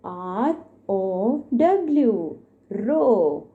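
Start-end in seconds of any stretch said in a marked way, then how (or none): 0.0-2.4 spelling out letters. Shown as a demonstration.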